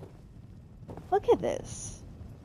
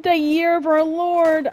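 loud, high, grand mimicry; mock old-fashioned captain; 7 semitones higher, 6 dB louder than usual. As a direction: echo the pompous captain with amused relish. Gleefully echoes the captain's old-fashioned phrase.

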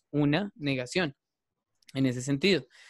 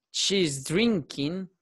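slow demo; 3 semitones higher, much slower than usual. Shown as a demonstration. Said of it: "para que ustedes vean también los cambios".

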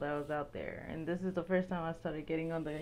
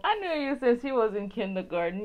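sassy comeback; 4 dB louder than usual. Retold or imitated. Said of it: "you be like".

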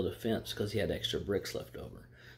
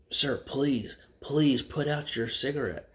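higher-pitched, mildly insistent plea; acted pleading; 4 semitones higher, 4 dB louder, slower than usual. Lady asking Texan to put out cigar, mild pleading. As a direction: plead a little, lifting the pitch. Woman begs smoker in smoky cabin.

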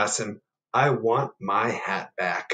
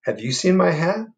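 bear voice; 8 semitones higher, 6 dB louder than usual. Acted. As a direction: ask like a lost, patient bear. Bear asks frog.

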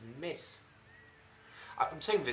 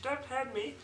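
frightened plea; 11 semitones higher than usual. Acted. Fishmonger begging.

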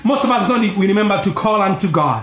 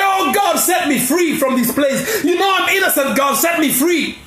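crying out; 4 semitones higher than usual. Retold or imitated. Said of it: "So I cried".

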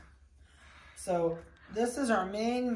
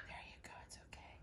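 barely audible soothing whisper; reassuring whisper; 19 dB quieter, much faster than usual. Real, not acted. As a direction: hush it softly to calm a puppy. Reassuring a hiding puppy.

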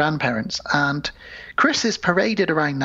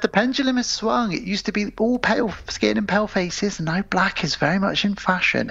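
put-on posh old guest; 6 semitones higher than usual. Voicing old white guest.

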